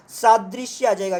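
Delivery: सादृश्य said slowly with a long first aa; slow careful pronunciation. Shown as a demonstration. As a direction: draw out सादृश्य for the students. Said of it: "इसमें क्या आ जाएगा?".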